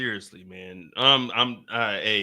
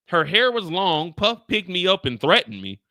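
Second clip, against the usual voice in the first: mock quoting; 4 semitones higher than usual. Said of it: "This nigga said".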